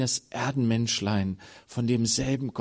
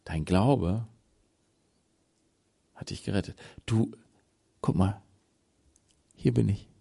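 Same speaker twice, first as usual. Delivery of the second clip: gentle assurance; 5 semitones lower, 3 dB quieter than usual. Acted. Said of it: "Dann sagt er".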